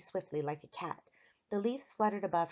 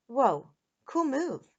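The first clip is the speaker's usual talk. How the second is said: slow, drawn-out, higher admiration; impressed exclamation; 6 semitones higher, 7 dB louder, much slower than usual. A narrator's reading. Eric admires girl's pebble throw, slow impressed wow. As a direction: stretch it out in awe.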